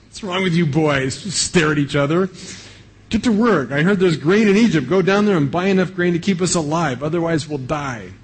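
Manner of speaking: a hint of a frustrated old father barking orders; impatient father. Father pushing sons to act.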